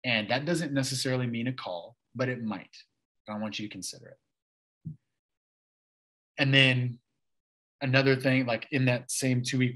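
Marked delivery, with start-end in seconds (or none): 0.0-4.9 imitating a gentle mentor, softer; soft, unhurried encouragement, lightly voiced; a touch of a kind pastor's gentle voice; gently. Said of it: "he very gently was like".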